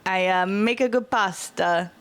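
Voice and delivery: hesitant attempt at an Italian accent; put-on Italian accent. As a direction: try out a mild mock Italian accent. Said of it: "Oh, I did the accent".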